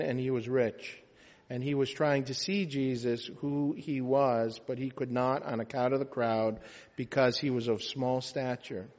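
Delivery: measured, even scripture reading; gospel reading. Acted. Priest reads Luke's Gospel to the standing congregation, measured liturgical reading. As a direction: read the Gospel out evenly and formally.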